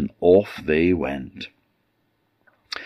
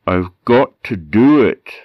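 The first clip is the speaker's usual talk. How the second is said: hand over mouth; 4 semitones higher, 6 dB louder than usual. Acted. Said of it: "a bit muffled 'cause he still had his hand over his mouth".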